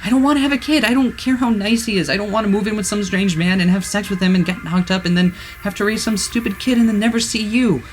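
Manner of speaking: wailing. A narrator's reading. Girl wailing to her lover, refusing the marriage. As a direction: wail it out, close to hysteria. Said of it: "starting to wail".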